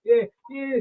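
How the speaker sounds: imitated drunken Southern accent; full Southern. Brother on the phone sounding drunk, imitated Southern accent. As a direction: mimic a thick, slurred Southern accent. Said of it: "full Southern".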